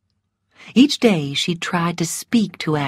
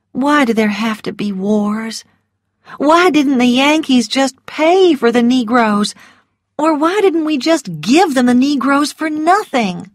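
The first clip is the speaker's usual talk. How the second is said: higher, lamenting questions that build; anguished protest; 6 semitones higher than usual. A narrator's reading. Scarlett asks Rhett why wars happen, anguished protest. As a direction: plead for some reason behind the loss.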